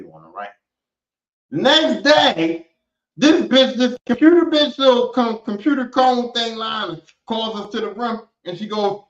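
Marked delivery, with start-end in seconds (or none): 1.5-8.3 dramatic build. Real, not acted.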